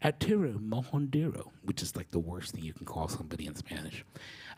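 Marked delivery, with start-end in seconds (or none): 0.0-1.5 high, mocking, fake British accent. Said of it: "in a fake British accent".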